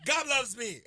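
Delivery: triumphant exclamation; shout out. Acted. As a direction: shout it out to spite the devil. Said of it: "when we shout out".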